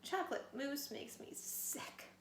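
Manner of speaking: slow whimpering whisper. Acted. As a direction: whimper it under your breath. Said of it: "he whimpered".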